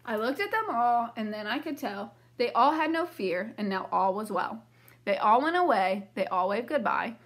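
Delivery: lively read-aloud storybook voice; reading to children. A narrator's reading. Teacher reading a picture book to the class, lively. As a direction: read it brightly for young listeners.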